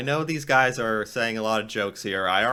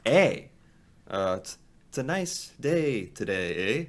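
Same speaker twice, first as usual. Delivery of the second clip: mock Canadian eh. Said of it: "trying to do an impression".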